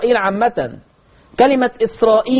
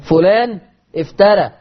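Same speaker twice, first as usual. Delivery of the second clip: Egyptian colloquial. Shown as a demonstration. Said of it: "لهجتنا كمصريين".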